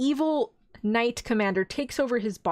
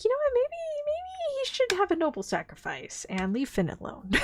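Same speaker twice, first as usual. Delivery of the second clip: laughing mockery. Real, not acted. Mocking wish, laughing.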